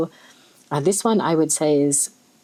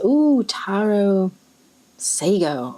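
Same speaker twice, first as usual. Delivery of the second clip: excited; 3 semitones higher, much slower than usual. Real, not acted. Excited at ink.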